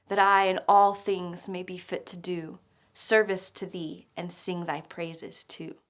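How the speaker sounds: emphatic, measured verse reading; poem recitation. Acted. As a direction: punch the line openings, then ease off.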